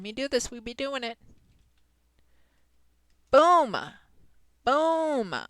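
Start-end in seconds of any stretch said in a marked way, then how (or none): 3.3-5.4 triumphant boom. Real, not acted. After finishing an action.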